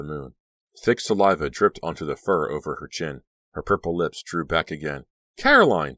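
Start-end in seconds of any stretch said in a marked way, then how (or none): 5.4-5.9 loud, high call; acted alarm, voice raised; frightened cry. A narrator's reading. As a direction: cry out the friend's name. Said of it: "Danielle cried".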